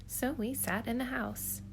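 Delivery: storybook narration. Acted. Reads Dr. Seuss aloud.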